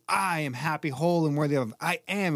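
"I" held long at the start, then "I am" set apart; demonstrating affirmation with "I am" stressed; word-by-word emphasis. Shown as a demonstration. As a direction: punch "I", then "I am". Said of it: "we go through each word".

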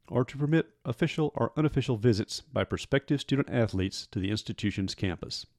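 lightly put-on lecturer reading rules; lecturing voice. Host reciting recruiting rules to listeners, mock lecturing. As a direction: read it out like a formal lecture. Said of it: "in my best lecturing voice".

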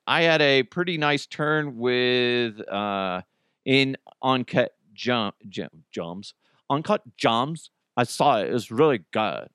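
a light hint of a Valley Girl reading the tweet, slowed. Host reading a listener's tweet, slightly slow hint of Valley Girl. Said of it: "I don't know why I went into Valley Girl".

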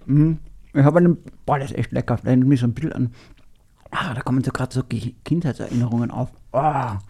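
chewing while talking; words round a chewed gum; mouth full. Real, not acted. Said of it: "Mit vollem Mund spricht man nicht".

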